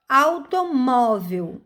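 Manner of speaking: slow Automóvel, leaning on MÓ; teacher's demo, MÓ stressed in Automóvel; stressed penultimate syllable. Shown as a demonstration. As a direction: stretch the MÓ in Automóvel. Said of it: "está na penúltima sílaba".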